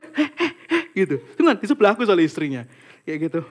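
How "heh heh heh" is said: wife shushing. Retold or imitated. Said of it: "Sampai istrinya sampai".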